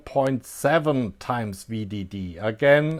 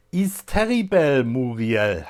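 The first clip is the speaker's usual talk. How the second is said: movie quote in a put-on German accent, pitched up. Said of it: "so I do a German accent".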